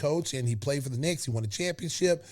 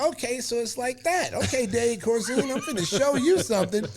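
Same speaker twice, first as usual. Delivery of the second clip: getting mad; 7 semitones higher than usual. Retold or imitated. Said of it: "So I get mad".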